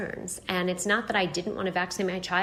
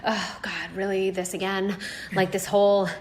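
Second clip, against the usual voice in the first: dismissive eye roll; 4 dB louder than usual. Retold or imitated. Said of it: "shrugged me off and kinda eye rolled".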